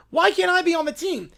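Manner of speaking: lightly voiced whiny child; bratty little princess. Princess whining to Schlereth about the team. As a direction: plead to join the team. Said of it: "Little Princess".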